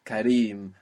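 Kareem with a long stressed REEM; stress on final vowel. Shown as a demonstration. Teacher pointing out the long vowel, stress on REEM in Kareem. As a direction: hold the "ee" at the end of Kareem. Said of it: "the long vowel there on the end".

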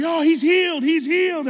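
high, loud amazed cry; re-enacted breathless-with-news yell; retold excited screaming. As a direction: shout the news like overjoyed kids. Acting out kids screaming the news.

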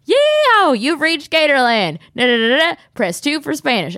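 hammed-up redneck voicemail greeting; insane hick answering machine. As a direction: whoop it up like a wild gator-farm cowboy. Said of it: "if you call in, it's".

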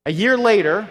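rising preacher intensity. Real, not acted. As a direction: push the story harder, rising. Preacher building story, loud.

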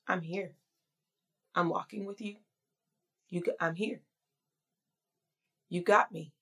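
softly voiced Jesus reassuring a struggling believer; soft reassurance. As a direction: comfort someone in their mess, quietly.

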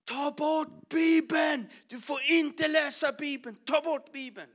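high, slow, furious shout at full force; retold yell. Principal yelling at the preacher to stop reading the Bible, furious shout. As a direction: bellow the order to put the Bible away. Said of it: "då skriker han".

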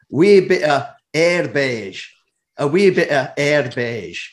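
slow, careful stab at a Scottish accent; attempted Scottish accent. Shown as a demonstration. Host tries Scottish slang on a Scottish footballer, attempted Scottish accent. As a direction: have a clumsy go at Scottish, word by word. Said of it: "here's my best attempt at, um, Scottish".

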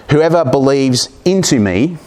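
"into" leaned on, slow; stress on into. Shown as a demonstration. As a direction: press the word "into" slowly. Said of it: "more accurately rendered".

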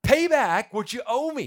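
high, loud furious demand; shouted order to pay the debt. A narrator's reading. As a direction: bark it at the debtor. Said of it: "he demanded".

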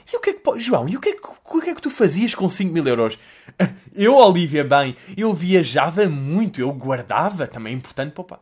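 lightly voiced fake presenter banter; a hint of cheesy TV hosts chatting; mock TV host chat. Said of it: "A linguagem de televisão desse tipo de pessoas". (conversa falsa de apresentadores, levemente imitada)

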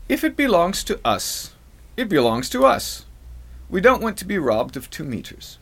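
lightly put-on French accent, not very good; attempted French accent. Host quoting an irate citizen from France, attempted French accent. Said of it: "trying to do my best French accent".

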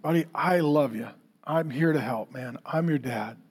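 put-on calm a small child down gently; soft fatherly reassurance; tender dad. Father tenderly reassures his son.

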